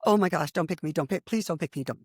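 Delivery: mortified inner plea. Retold or imitated. Nervous student silently begging the teacher, mortified. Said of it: "and I'm thinking".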